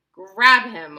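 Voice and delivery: loud, urgent command; sharp order. A narrator's reading. Wonka orders the parents to catch the tiny boy, loud and urgent. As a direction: bark it out fast. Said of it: "ordered Mister Wonka".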